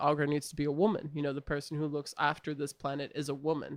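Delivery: ordinary talk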